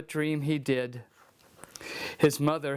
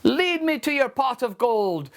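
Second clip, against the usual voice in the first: triumphant; 5 semitones higher than usual. Acted. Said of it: "said Seamus triumphantly".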